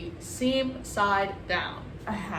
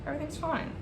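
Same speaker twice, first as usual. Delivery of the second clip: higher, softer, clearly not fine; strained high denial; 7 semitones higher, 5 dB quieter, much faster than usual. Real, not acted. Baker as the cake breaks, strained high denial. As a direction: squeak it out in denial. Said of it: "Oh, it's not fine".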